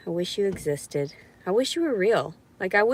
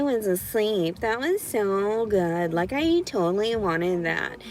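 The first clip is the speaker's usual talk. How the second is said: condescending voice. Acted. Speaker mocking those who doubt their account, condescending. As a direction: lay on fake enthusiasm, dripping with sarcasm. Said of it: "that's the kind of condescending voice I do to men".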